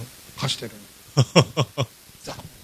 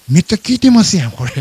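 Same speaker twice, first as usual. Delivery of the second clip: surprised; 3 semitones higher, 7 dB louder than usual. Retold or imitated. Streamer startled that people are already listening, surprised. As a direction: blurt it out in mock dismay.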